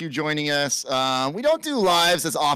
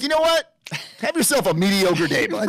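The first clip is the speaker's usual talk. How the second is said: mock fatherly send-off; 4 semitones higher than usual. Mock send-off of son to school.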